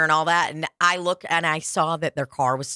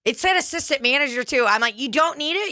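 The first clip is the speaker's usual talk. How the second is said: fake sweet; 7 semitones higher than usual. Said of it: "I go".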